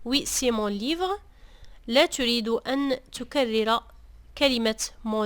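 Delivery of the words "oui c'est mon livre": slow Oui, c'est mon livre; slow contrast demo. Shown as a demonstration. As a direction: model the form to avoid slowly. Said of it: "عوض أن تقول". (نطق بطيء للصيغة التي نتجنبها)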